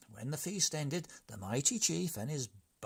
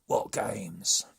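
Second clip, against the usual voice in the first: gruff demand; 2 semitones lower, 8 dB louder than usual. Acted. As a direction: bark the question. Chief demands.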